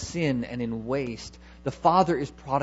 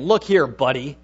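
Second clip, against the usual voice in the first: insulting; 5 dB louder than usual. Retold or imitated. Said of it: "It's like saying".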